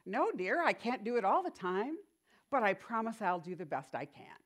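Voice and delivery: lightly voiced sweet refusal; squeaky voice. Preacher retelling the minister's reply in a light squeaky voice. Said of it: "in her little squeaky voice".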